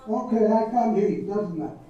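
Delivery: usual speaking voice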